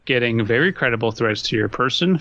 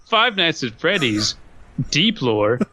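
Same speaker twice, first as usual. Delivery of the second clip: game show host; 5 semitones higher than usual. Retold or imitated. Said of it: "I just imagine MatPat hosting".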